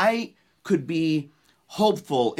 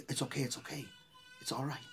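very soft, hushed reassurance; retold murmur of comfort; soothing; 15 dB quieter, faster than usual. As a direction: gently comfort someone who is weeping. Soothing the weeping woman, retold.

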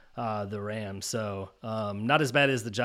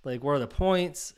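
shocked disbelief; 4 semitones higher, slower than usual. Retold or imitated. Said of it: "you're looking at your phone and you're like".

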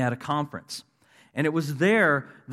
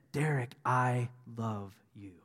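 gentle whisper-like voice; 5 dB quieter, slower than usual. Retold or imitated. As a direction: voice a hushed, tender word from God. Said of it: "the whisper of his voice".

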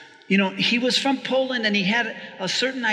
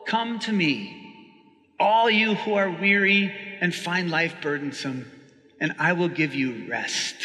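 gentle reading. Acted. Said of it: "Jesus goes on to say".

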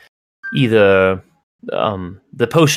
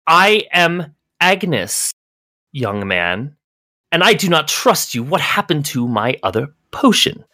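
a hint of an imperious old lady; stern old Agnes; 3 semitones higher than usual. Old Agnes scolds the servant, lightly voiced and stern. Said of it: "She says".

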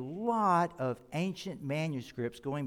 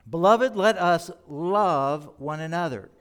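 firm reading; 2 semitones higher, 8 dB louder than usual. Shown as a demonstration. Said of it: "I love the way John says this".

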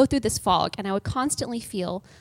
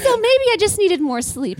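higher and louder, still laughing; 9 semitones higher, 6 dB louder than usual. Real, not acted. Laughing with co-hosts at her own story. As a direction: chuckle the words out.

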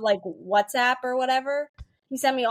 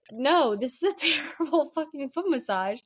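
laughing retort; 5 semitones higher than usual. Retold or imitated. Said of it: "And I was like".

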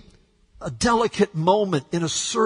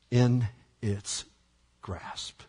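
fading whisper; 7 semitones lower, 7 dB quieter, much slower than usual. Acted. Rhetorical question fading.

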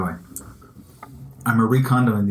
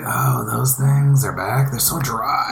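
disappointed; much slower than usual. Retold or imitated. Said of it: "my first reaction was like".

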